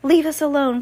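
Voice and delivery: high, loud bossy order. A narrator's reading. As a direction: snap it as a command. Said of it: "Carmelita ordered".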